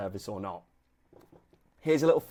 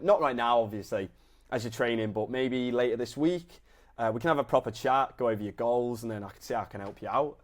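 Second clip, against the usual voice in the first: nonchalant. Shown as a demonstration. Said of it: "it needs to be nonchalant".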